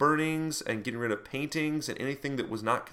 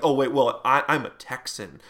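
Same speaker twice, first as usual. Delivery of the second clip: mock Texan accent; 5 dB louder than usual. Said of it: "jump into a few different accents".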